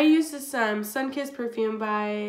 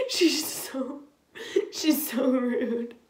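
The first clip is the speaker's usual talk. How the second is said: indignant; 2 semitones higher, much slower than usual. Retold or imitated. Retelling her indignant reaction.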